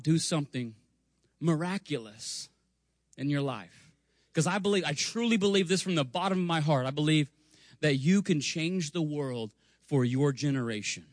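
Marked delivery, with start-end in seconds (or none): none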